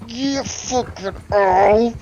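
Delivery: high, slow, mock-sympathetic drawl of pain; sarcastic agreement. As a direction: stretch it out, dry and sore. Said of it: "And I'm like".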